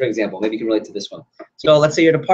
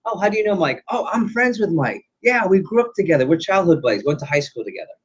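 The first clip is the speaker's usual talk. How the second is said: higher-pitched, lightly acted friendly surprise; eager small talk; 5 semitones higher than usual. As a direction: play up the chance connection, settling down by the end. Acting party small talk, finding mutual friend.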